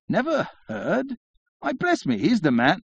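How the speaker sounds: high, breathless gossipy lady; gushing society lady. A narrator's reading. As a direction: squeal it like an excited hostess. Excited lady voice, high pitch.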